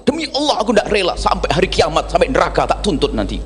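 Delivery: acted outburst of vengeful swearing, starting high; mock angry oath. First woman swearing revenge when wronged, mock angry. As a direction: swear it like someone quick to take offence. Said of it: "kalau sudah marah itu langsung".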